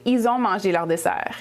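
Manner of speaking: 'Ils ont' said as 'ee-zon', no L but a linking S; dragged S. Shown as a demonstration. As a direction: drop the L and drag the S: 'Ils ont' as 'izon'. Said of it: "They drag the S".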